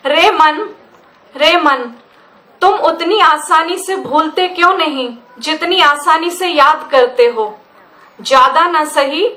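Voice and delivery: verse addressed to one's own mind, phrase by phrase; poetry recitation. Acted. Poet questioning her own mind about memory, measured recitation. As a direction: recite with deliberate pauses between lines.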